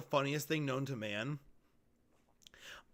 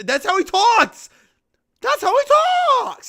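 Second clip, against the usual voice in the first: high, loud, laughing through it; high loud laughing protest; laughing insistence; 10 dB louder than usual. Real, not acted. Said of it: "You're wrong".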